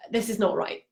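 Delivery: softly, with a touch of emotion; quietly upset retelling; a bit emotional. Retold or imitated. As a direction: let a little emotion show, softly. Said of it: "getting a bit emotional".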